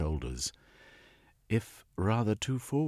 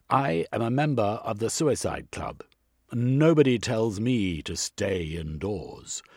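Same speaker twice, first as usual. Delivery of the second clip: indignant; 3 semitones higher, 6 dB louder than usual. Acted. Indignant gentleman.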